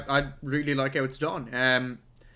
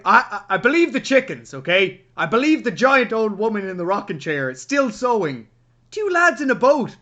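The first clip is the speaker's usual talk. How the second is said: incredulous viewer rant; 5 semitones higher, 6 dB louder than usual. Retold or imitated. Voicing a disbelieving viewer.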